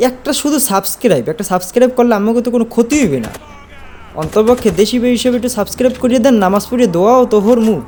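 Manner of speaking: high-pitched begging appeal; pleading. Real, not acted. Begging viewers to subscribe. (উঁচু গলায় কাকুতি-মিনতি)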